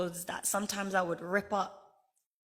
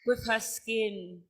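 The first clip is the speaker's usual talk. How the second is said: loud, laughing, triumphant cry; triumphant shout; 2 semitones higher, 7 dB louder than usual. Real, not acted. Telling the crowd how she walked into auditions, triumphant shout. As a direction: proclaim it with a joyful roar. Triumphant climax of her speech.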